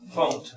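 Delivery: found, with the N and T sounded; found ending in NT. Shown as a demonstration. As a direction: say found, closing on N then T. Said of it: "tenemos N T".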